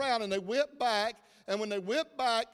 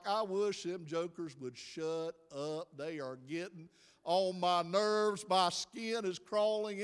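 mildly irritated, lower and slow; fed-up parent; 3 semitones lower, 4 dB quieter, slower than usual. Acted. Parent inwardly complaining about noisy kids, mildly fed up. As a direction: grumble it slowly, nerves wearing thin.

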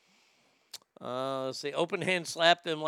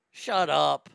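louder, fed-up shut up; sharp loud retort; 6 dB louder than usual. Real, not acted. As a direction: snap it back louder in his own voice. Snapping back at the mocked voice.

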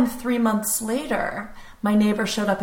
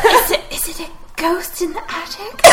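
ghost voice; 9 semitones higher than usual. Acted. Playing Cornelia the ghost.

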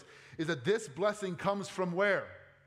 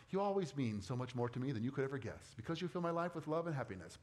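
a hint of syrupy card verse; lightly mocking Hallmark sweetness; mock greeting card; 4 semitones lower, 5 dB quieter, faster than usual. Pastor mocking greeting card verse to the church, lightly syrupy. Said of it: "Hallmark card sentimentality".

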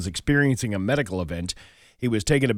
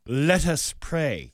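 mock solemn blessing; 4 semitones higher, much slower than usual. Punchline voice in a joke.

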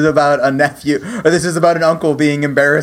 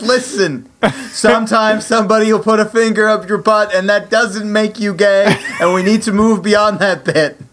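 a mildly higher mock lecture; imitating Steven; 6 semitones higher than usual. Teasing Steven with a mild mock lecture. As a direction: lightly imitate a friend lecturing. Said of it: "you being like".

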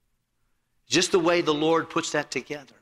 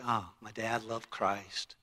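much softer, slow and fond; tender tribute; 3 semitones lower, 10 dB quieter, slower than usual. Retold or imitated. Kids remember their dad for loving Christ, tender and soft. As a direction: say it gently with love. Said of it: "they would say".

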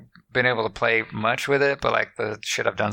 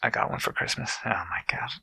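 whisper; 6 dB quieter than usual. Real, not acted. Whispered aside about Christmas gift.

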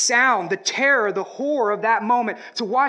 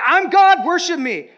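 louder, higher mock divine boast; boastful Jesus; 9 semitones higher, 9 dB louder than usual. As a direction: lord it over him playfully. Jesus voiced mockingly boasting.

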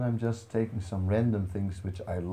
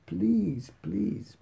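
pleading Hanuman; 3 semitones higher than usual. Retold or imitated. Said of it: "Hanuman is just saying".

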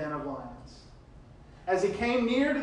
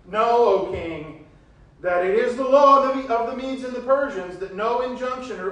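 pressing officials; 7 semitones higher, 11 dB louder than usual. Acted. Officials cornering the king with the law, loud.

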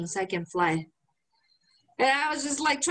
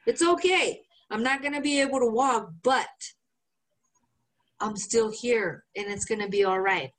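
gently imitating calming a worried friend; mock reassuring. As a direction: soothe the panicked friend. Calming friend while crippled.

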